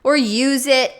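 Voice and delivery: carefree buyer's thought. Acted. Mimicking what anyone thinks buying new things, carefree eagerness. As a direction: breezily act out a naive shopper's thought. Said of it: "you think".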